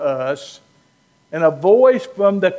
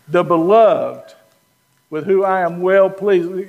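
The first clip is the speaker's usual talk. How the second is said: God's voice. Retold or imitated. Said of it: "This is God saying".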